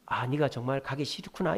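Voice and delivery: understanding parent's reflection; empathizing. Retold or imitated. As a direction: softly acknowledge the child's reluctance. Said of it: "이렇게 공감해 주는 게".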